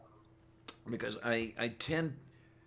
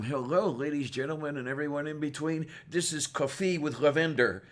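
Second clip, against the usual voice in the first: mock host's opening announcement; show introduction; 3 semitones higher, 4 dB louder than usual. Host trying out a joke show intro, announcer-like. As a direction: announce the show with playful projection. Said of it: "I should introduce the show with".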